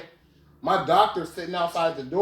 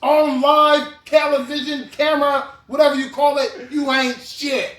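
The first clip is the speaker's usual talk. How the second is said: mock announcement; 10 semitones higher, 9 dB louder than usual. Real, not acted. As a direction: proclaim it for the cameras. Declaring on camera.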